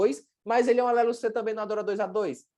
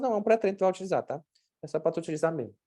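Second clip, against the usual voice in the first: unexcited intonation; 3 dB quieter, faster than usual. Shown as a demonstration. Nutritionist gives patient a pre-workout without building expectation, unexcited. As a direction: play the supplement down, tailing off softer. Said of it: "a entonação da minha voz".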